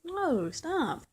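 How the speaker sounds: high-pitched exasperated halt; firm stop. Real, not acted. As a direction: shut the deflection down hard. Cutting off partner's deflection.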